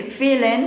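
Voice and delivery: "feeling" with the final g dropped, "feelin"; casual slang pronunciation. Shown as a demonstration. Teacher showing slang in a song lyric, "feeling" as "feelin". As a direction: say "feeling" casually, ending on a plain n. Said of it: "jadi lebih ke casual atau slang".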